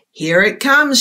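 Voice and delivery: a touch of a called-out cry; mild mock shout. Cow alerting the herd the egg hatches, mock shout. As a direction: call it out, lightly. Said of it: "shouted one of the cows".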